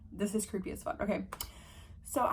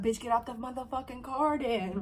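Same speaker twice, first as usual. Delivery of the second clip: mock tough challenge; 3 semitones higher than usual. Switch from cooing to confrontation.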